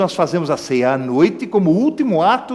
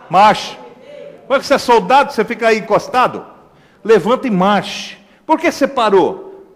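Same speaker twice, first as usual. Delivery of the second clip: rousing exhortation; 4 semitones higher than usual. Acted. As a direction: rouse the congregation. Exhorting soldiers. (exortação firme)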